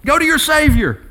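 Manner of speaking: high-pitched urging of one's own soul; acted self-exhortation, high and insistent; talking to himself. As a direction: order your own soul, pitched right up. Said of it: "healthy to talk to yourself".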